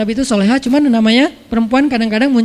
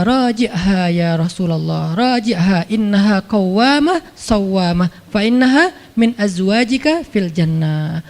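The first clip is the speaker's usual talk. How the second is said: slow Arabic recitation; 3 semitones lower, slower than usual. Retold or imitated. Jibril recites Allah's message.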